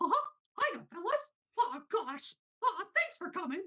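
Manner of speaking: put-on very high, bright cartoon mouse voice. Asked for their go-to voice impression, the speaker does a Mickey Mouse impression. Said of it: "the first one I always do is Mickey Mouse. I go".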